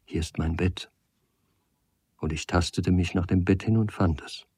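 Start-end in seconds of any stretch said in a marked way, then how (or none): 0.0-0.9 softly voiced, hushed; whispered. A narrator's reading. Girl shows the stranger her bed in darkness, half-whispered. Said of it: "flüsterte sie".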